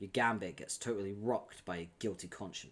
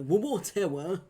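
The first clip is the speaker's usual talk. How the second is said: a light, higher take on a fan voice actor's Eridan; Octopimp's Eridan voice; 8 semitones higher, 7 dB louder, slower than usual. Retold or imitated. Streamer showing how she usually voices Eridan, with a higher quick impression. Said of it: "I just do the Octopimp fucking voice".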